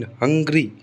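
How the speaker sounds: हंग्री with हंग held stronger, री relaxed; stress on first syllable. Shown as a demonstration. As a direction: punch हंग, ease off री in हंग्री. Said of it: "थोड़ा सा louder बोलना पड़ता है".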